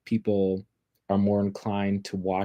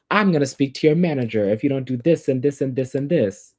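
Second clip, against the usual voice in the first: mock entitled complainer, pitched higher; higher, hammed-up demand with a list rattled off; Karen; 4 semitones higher than usual. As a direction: imitate a demanding customer threatening to escalate. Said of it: "the whole meme of Karens".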